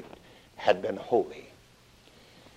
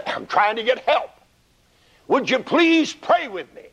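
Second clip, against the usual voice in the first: pleading; 10 semitones higher than usual. Acted. Jesus begging disciples.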